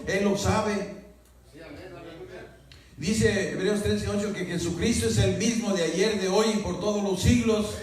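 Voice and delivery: preaching. Acted. Pastor exhorting the congregation, fervent preaching. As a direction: preach it out to the hermanos.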